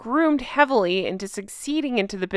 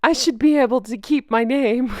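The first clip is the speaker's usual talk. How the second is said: put-on posh British accent; 3 semitones higher than usual. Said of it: "I wish Jay was here to do the accent".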